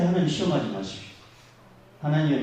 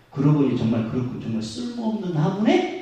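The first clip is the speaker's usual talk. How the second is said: agreeing friend. Retold or imitated. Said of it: "옆에 있는 친구가 뭐라 말장난을 치냐면".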